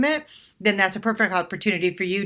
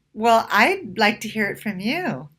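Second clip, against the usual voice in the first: smiling; slower than usual. Shown as a demonstration.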